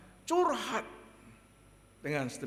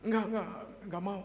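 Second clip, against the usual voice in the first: imitating frightened child; 5 semitones higher, much faster than usual. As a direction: refuse like a scared child. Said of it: "Dia takut saya marah". (menirukan anak takut menolak)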